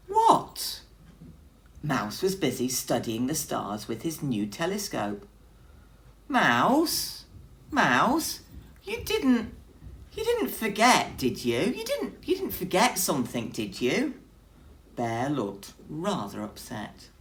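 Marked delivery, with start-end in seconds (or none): 0.1-0.8 squeaky, much higher startled what; startled out of stargazing; surprised what. A narrator's reading. Mouse looks up startled from his telescope, squeaky. 6.3-14.1 high, wavering worried bear; anxious pleading. A narrator's reading. Bear anxiously asks Mouse if he forgot, high pleading.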